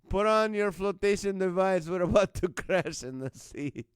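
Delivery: hammed-up cabin announcement, amused; mock pilot announcement. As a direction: announce an emergency as a joking pilot. Mock pilot emergency announcement to passengers.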